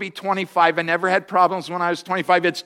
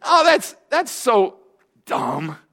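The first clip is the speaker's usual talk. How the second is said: scornful retort; 4 semitones higher, slower than usual. Retold or imitated. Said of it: "And I said".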